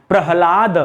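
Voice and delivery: प्रहलाद as pra-ha-laad, falling; careful corrected प्रहलाद, ending on a fall; ह before ल. Shown as a demonstration. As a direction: sound ह ahead of a long ला in प्रहलाद. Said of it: "हमें क्या लिखना है?".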